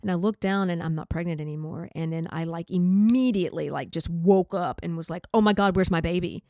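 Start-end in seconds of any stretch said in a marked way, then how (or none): 5.3-6.4 panicked. Retold or imitated. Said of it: "I started freaking out".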